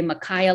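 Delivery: "Makaya" rhymed with "papaya", stress on the middle "kai"; pronounce Makaya. Shown as a demonstration. Speaker to interviewer, teaching her husband's name, careful pronunciation. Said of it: "like papaya".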